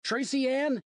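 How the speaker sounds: calling out loud and high; a father yelling for his lost daughter; shout. Acted. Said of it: "I shouted".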